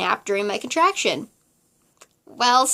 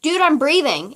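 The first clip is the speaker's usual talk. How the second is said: sassy; 4 semitones higher, 5 dB louder than usual. Retold or imitated. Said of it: "I was just so sassy".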